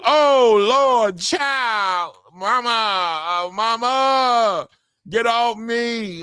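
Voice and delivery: hammed-up cry of pain, calling for mama; comic fake anguish over a knockout; mock wail for mama. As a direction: play the knocked-out fighter wailing for his mother. Mock wailing at knockout replay.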